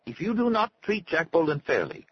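high, stilted doctor's warning; thin, unnatural voice. A narrator's reading. Doctor warns Arnie about Jack, thin unnatural voice. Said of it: "in a thin, unnatural voice".

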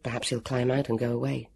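low, soft inner voice; private thought. A narrator's reading. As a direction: think it to yourself, quietly. Heroine's secret thought, lying still.

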